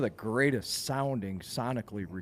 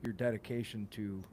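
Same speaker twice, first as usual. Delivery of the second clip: softer, halting respect; sympathetic admiration; 9 dB quieter than usual. Shown as a demonstration. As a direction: quietly offer regretful admiration, feeling for the words. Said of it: "It's more".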